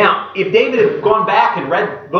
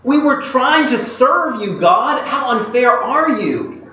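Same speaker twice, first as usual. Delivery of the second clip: higher, pleading mock outrage at God; acted angry protest; 5 semitones higher than usual. David cries out to God after Uzzah dies, angry. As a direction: voice David's hurt anger, slowing on the last line. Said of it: "he's so angry".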